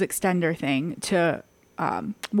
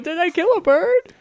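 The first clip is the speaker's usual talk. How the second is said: retold worry; 10 semitones higher than usual.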